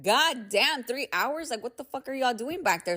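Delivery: mock outrage at the wait; exasperated disbelief. Mocking the dealership's three hour wait, incredulous.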